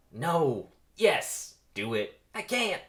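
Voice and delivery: loud, high back-and-forth self-argument; debating with himself. Acted. Barry argues with himself over speaking up, torn. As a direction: argue both sides in short bursts. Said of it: "Begins debating with himself".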